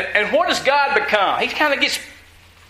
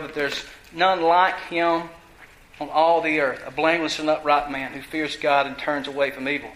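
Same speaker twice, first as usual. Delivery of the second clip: measured Bible reading, pitched lower than the preaching; scripture reading; 5 semitones lower than usual. A narrator's reading. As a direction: read the passage aloud in a low, even voice. Reads scripture aloud to congregation.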